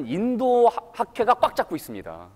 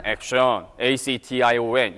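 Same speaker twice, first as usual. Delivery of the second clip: dull spelling; 7 semitones lower than usual. Shown as a demonstration. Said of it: "이러면 재미가 없어요".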